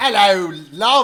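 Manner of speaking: very loud, high put-on British accent. Joking about the accents they always do, the speaker puts on a mock British accent. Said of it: "all the perfect accents that we do".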